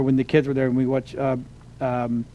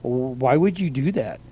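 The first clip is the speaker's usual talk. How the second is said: slow, softer mock puzzlement; imitating the staff's baffled question; puzzled; 3 semitones lower, 4 dB quieter, slower than usual. Retelling how Disney staff reacted to fighting sabers, mock baffled. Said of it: "they kinda looked at us like".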